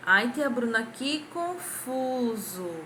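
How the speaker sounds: mock puzzled student; confused pupil. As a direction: play a lost child complaining. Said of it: "Não é confuso".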